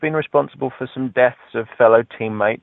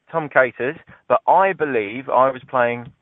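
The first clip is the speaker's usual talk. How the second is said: usual speaking voice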